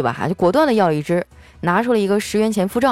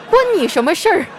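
angry retort; 4 semitones higher than usual. Acted. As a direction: snap back at busybodies. Ranting at nosy onlookers.

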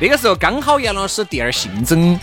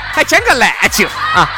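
laughing. Real, not acted. Laughing retort.

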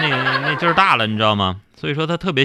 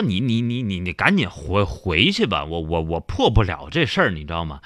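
stammering monk; 8 semitones lower, 4 dB quieter than usual. Acted.

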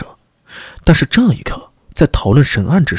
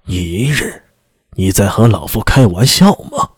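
cold disbelief; 3 semitones lower than usual. Acted. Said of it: "声音一字一顿地说道".

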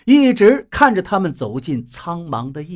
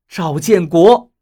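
a loud, slow call of his name; a shouted demand to be answered; sudden shout; 6 dB louder, slower than usual. Acted. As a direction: yell his full name at him. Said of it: "陈云突然吼道".

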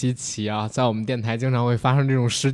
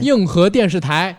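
gala host announcing; 3 semitones higher, 4 dB louder than usual. Pretend. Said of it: "我以为你说咱模仿的这个开场呢".

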